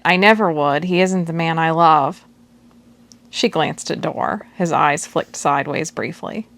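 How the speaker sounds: calm, even novel reading; story narration. A narrator's reading. Audiobook narrator reading a chapter to listeners, steady.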